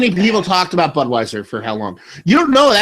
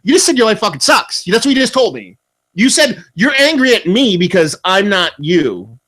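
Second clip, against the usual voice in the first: higher, exasperated comeback; mock-outraged, pitch raised; retold yelling; 5 semitones higher than usual. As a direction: re-enact yelling at a stranger, hammering the point. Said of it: "I'm yelling at him like that".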